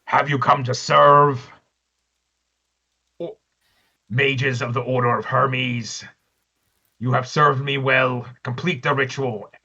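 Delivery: lightly voiced demon, slow and echoing; a hint of a booming demon; sepulchral voice. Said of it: "sepulchral voice basically echoes through everybody's head".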